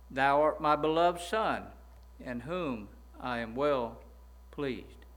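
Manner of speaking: slow, solemn voice of God from heaven; slow reverent proclamation from heaven. Retold or imitated. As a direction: intone the Father's words slowly, with weight. Voice from heaven quoted.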